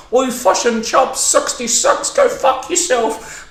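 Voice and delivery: mock yell, mimicking a Kiwi accent; mocking Aussie kids. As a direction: jeer like bullying kids. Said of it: "They were like".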